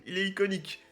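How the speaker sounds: high, loud, breaking up with laughter; laughing. Real, not acted. Opener mocking their own accent to viewers, laughing. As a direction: laugh through the words, helplessly amused.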